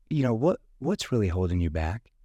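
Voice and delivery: leaning in with empathy; caring question to a prospect; concerned tone. Shown as a demonstration. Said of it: "that tone that shows empathy".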